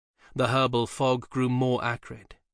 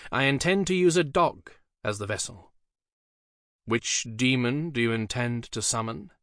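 grave magician; 3 semitones higher than usual. Acted. Dee's voice in story.

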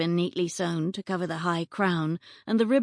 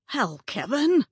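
angry yell; 7 semitones higher, slower than usual. Acted. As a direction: yell at the intruder. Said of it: "a man yelled".

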